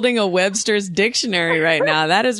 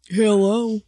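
grandmother impression; 2 semitones higher than usual. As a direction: call it out as grandma would. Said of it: "my grandmother talks like that".

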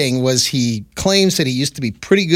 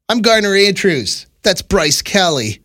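professional announcer voice; fighting game announcer. Acted. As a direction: read it like a hype announcer. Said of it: "my professional announcer voice".

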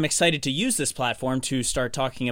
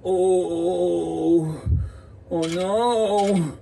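rising panic; 5 semitones higher, much slower than usual. Acted. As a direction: panic building to a shout. Sudden panic in clip.

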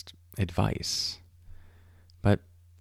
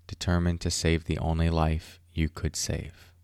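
poem reading. Acted. Reads Mary Oliver poem.

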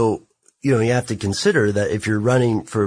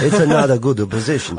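put-on louder, laughing Italian accent; hammed-up Italian accent; 3 semitones higher, 4 dB louder, faster than usual. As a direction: ham up the Italian mobster accent. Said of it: "I got a little Italian there".

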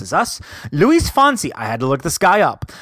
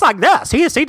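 terrible high-pitched character impression; Mad Hatter; 11 semitones higher, 4 dB louder than usual. Vlogger demonstrates the character's voice to viewers, botched high impression. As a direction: badly attempt a zany, very high voice. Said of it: "I was trying to do an impression, and that sounded terrible".

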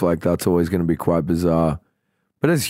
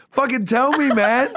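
very high, pleading demand; retold squeal of frustration; mock exasperation. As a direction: beg for the answer, comically frantic. Retold demand for who has wallet.

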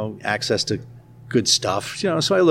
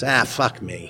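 bad Boston accent; 3 dB quieter, slower than usual. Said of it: "in my worst or best Boston accent".

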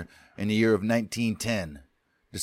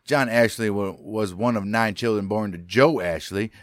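put-on Southern accent. Narrator telling a Wild West-esque Florida story, Southern accent. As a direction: tell it in a folksy Southern accent. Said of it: "do your Southern accent".

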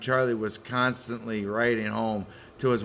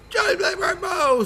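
hammed-up wailing. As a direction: wail for the lost husband. Mock grief wail.

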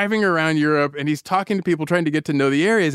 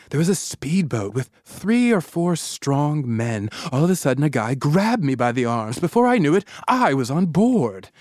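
measured, drawn-out storytelling read; quoted account reading; 2 semitones lower than usual. A narrator's reading. Host reading how she was grabbed, measured narration. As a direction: read her account with slow suspense on key words. Reads the woman's written account.

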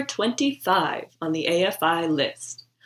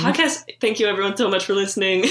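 laughing; faster than usual. Real, not acted. Mock sign-off while laughing.

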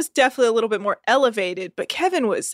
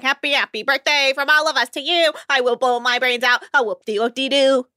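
mock birthday serenade; 4 semitones higher than usual. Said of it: "You gotta be like".

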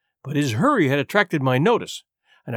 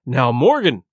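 lower, measured warning; very stern; 5 semitones lower, 3 dB louder than usual. A narrator's reading. Silver opening his questioning of Morgan, very stern. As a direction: address him like a man in trouble. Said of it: "very sternly".

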